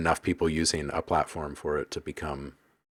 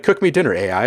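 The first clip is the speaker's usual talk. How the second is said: loud, high command, dropping at the end; acted order to AI; 5 semitones higher, 10 dB louder, faster than usual. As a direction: call out a mock order to a machine.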